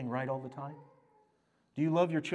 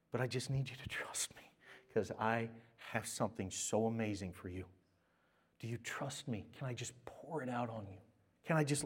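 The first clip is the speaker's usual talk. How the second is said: soft, tender, partly whispered reassurance; tender voice of God; 4 dB quieter than usual. Acted. God speaking lovingly to imperfect children, soft and tender. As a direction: speak God's words gently, close and soft. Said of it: "He's like".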